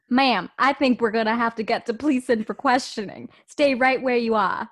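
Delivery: loud attempt at a Boston accent; put-on Boston accent, firmly delivered. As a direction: have a go at a Boston nurse. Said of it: "how'd you do the Boston accent".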